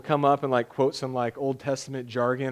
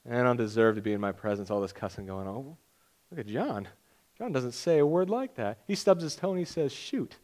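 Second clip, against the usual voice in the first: low, quiet, disapproving God voice; a lightly voiced judging God, muttered; hint of a scornful deity looking down; mock stern God; 4 semitones lower, 5 dB quieter than usual. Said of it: "God will be like".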